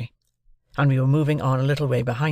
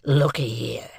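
whispering. A narrator's reading. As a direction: lean in and whisper. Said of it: "said my convict to the sergeant".

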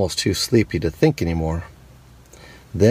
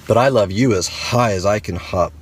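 smiling big hare. Acted. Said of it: "smiled Big Nut Brown Hair".

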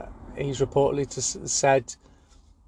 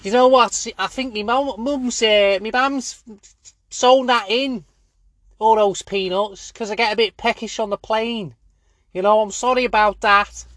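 high-pitched, stumbling excuse; high voice of a flustered tennis player; Djokovic impression; 7 semitones higher than usual. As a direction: plead your case in a high voice. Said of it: "he was like".

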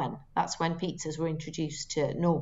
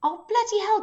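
surprised; 13 semitones higher than usual. Real, not acted. Surprised when he gets it right.

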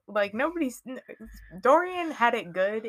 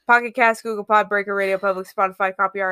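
loud; 7 dB louder, faster than usual. Real, not acted. Loud plug list.

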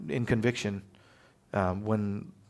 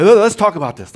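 pleading son; 7 semitones higher, 12 dB louder than usual. Retold or imitated. Son stalling before a spanking.

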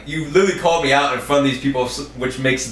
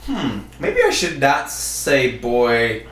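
slow thinking aloud; slower than usual. Retold or imitated. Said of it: "I was like".

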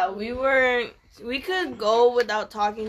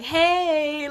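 higher-pitched, drawn-out friendly "hey"; mock-friendly greeting, pitched up; putting on nice; 5 semitones higher than usual. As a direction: imitate someone sweetly making up. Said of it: "try to be all nice".

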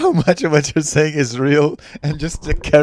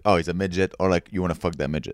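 low muttered aside; 8 semitones lower, 7 dB quieter than usual. Retold or imitated. Describing the reaction to midgets, low sly mutter. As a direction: lower and softer, sly undertone.

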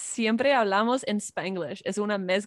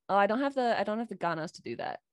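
spanglish. Retold or imitated. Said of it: "Y ahora yo digo en inglés".

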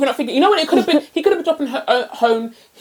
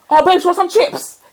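mocking whiny offer; 6 semitones higher than usual. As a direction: parody his sheepish offer with a crying edge.

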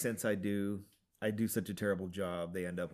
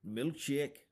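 slow, higher cartoon uncle voice; Scrooge McDuck voice; 6 semitones higher, 3 dB louder, slower than usual. Uncle asking his nephews for a milkshake, in a slow high cartoon voice. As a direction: drawl it out like a greedy old duck. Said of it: "So, so he's like".

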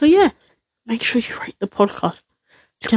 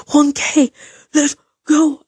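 excited cheer; 6 semitones higher, slower than usual. Real, not acted. Celebrating a thousand subscribers.

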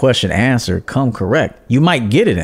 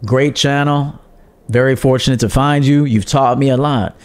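polite, measured compliment; pleasant and respectful. Shown as a demonstration. Viewer greeting a streamer in the chat, respectfully. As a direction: model a courteous commenter. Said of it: "be pleasant and respectful and honorable".

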